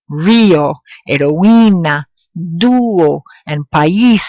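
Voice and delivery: strong stressed i or u in "Rio, heroína, dúo, país"; strong accented vowel. Shown as a demonstration. Spanish teacher showing accented vowels, "Rio, heroína, dúo, país" stressed on i or u. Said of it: "making that strong, ac-, accentuated sound".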